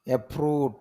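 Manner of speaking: অ্যাপ্রুভ as "e-prooov"; long vowel. Shown as a demonstration. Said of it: "টান হবে এখানে".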